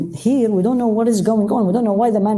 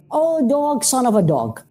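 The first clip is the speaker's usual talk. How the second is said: scornful name-calling, starting high then dropping; belittling; 5 semitones higher than usual. Retold or imitated. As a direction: spit it out as a put-down. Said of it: "the tone is belittling".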